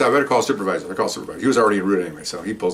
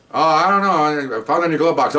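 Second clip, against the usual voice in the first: mock innocent woman; 6 semitones higher, 3 dB louder than usual. Woman feigning ignorance.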